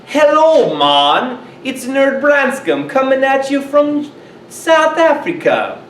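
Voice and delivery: hammed-up Jamaican accent. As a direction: greet them like a Jamaican radio host. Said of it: "you're talking in a Jamaican accent".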